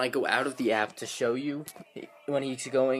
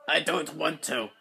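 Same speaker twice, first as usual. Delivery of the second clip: higher, slow protesting robot voice; 5 semitones higher than usual. Acted. Toy robot objecting to being best man, drawn-out protest. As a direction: drag out a stubborn refusal. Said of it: "Shut up, B B eight".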